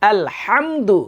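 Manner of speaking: "আলহামদু" with a strong pharyngeal h; throat h. Shown as a demonstration. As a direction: press breath through the h of "আলহামদু". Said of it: "একটু আগে বললাম যেটা".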